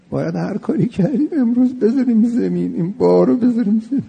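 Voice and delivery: high, impassioned plea, quickening; fervent urging. Real, not acted. Preacher urging listeners to repent today, high impassioned plea. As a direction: pitch it up and press the crowd to lay the burden down.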